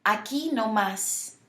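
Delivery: "Aquí no más" slowly, stressing the final í and the á. Shown as a demonstration. Teacher reminding learners of accents, stress on "Aquí" and "más". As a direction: lean on "quí" and "más" in "Aquí no más". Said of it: "accents that go on the I and the A".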